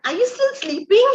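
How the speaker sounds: high, coaxing voice to a sleeping husband; sweet wake-up call. Retold or imitated. Wife gently waking her sleeping husband, high and sweet.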